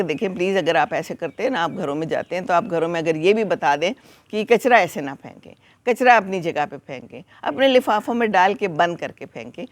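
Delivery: calm polite request. Retold or imitated. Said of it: "بڑے آرام سے اور کہا". (نرمی اور آرام سے درخواست)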